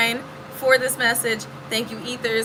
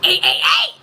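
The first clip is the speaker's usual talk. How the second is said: loud, higher hype shout; 7 semitones higher, 5 dB louder than usual. Retold or imitated. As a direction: yell it like a rapper's ad-lib. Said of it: "like Jase would say".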